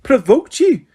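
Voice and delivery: high, loud incredulous yell; outraged shout. Acted. McGonagall shouting at Harry, outraged. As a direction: shout the words back at him. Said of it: "shouted Professor McGonagall".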